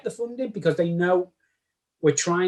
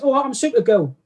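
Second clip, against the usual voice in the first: imitated Kettering accent; 6 semitones higher than usual. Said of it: "she's from Kettering".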